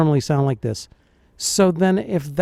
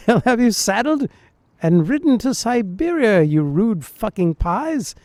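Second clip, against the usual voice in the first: imitated Dread Pirate Roberts; 4 semitones higher than usual. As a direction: relish the insult in a mock English accent. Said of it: "This is like, uh, the Dread Pirate Roberts".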